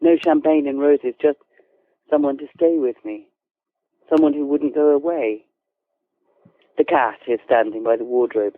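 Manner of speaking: measured, composed narration of a novel; unhurried storytelling with careful phrasing; literary story reading. A narrator's reading. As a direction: read it like an author at a reading. Author reads from novel.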